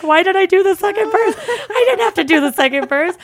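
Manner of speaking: high, loud mock wail; hammed-up panicked self-reproach; exasperated regret. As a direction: berate yourself in rising hysteria. Retold regret over second verse.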